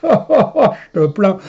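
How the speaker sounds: slow, laughing pity. Real, not acted. Teasing his brother-like friend, laughing slowly. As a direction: laugh as you pity him.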